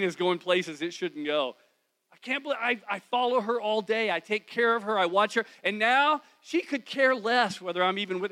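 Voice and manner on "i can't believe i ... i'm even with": resentful inner rant. Retold or imitated. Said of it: "suddenly I'm feeling all this anger".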